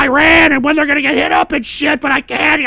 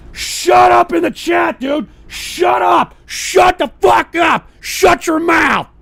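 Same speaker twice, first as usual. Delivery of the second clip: yelling at chat; 3 semitones higher, slower than usual. Real, not acted. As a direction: shout them down, stretching each order. Yells at chat to shut up.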